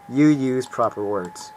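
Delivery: slow words through a chuckle; amused slow teasing laugh; laughing teasingly. Acted. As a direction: tease him while giggling.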